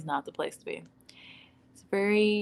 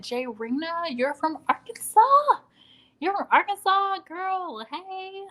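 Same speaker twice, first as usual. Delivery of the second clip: high, bright-eyed squeal of recognition; excited greeting; 11 semitones higher, 3 dB louder than usual. Real, not acted. Thrilled to greet Jay Rena from Arkansas, high excited voice. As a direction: greet her like long-lost kin.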